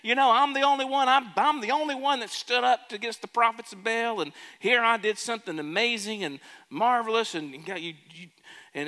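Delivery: whiny, high self-pity, pushed a bit fast; mock pity-party whine; pouting. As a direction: complain like a sulking child. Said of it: "pouting a little bit".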